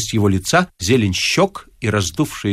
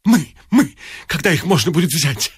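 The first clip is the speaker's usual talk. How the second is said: excited outburst; 3 semitones higher than usual. A narrator's reading. Elated buyer bursts out.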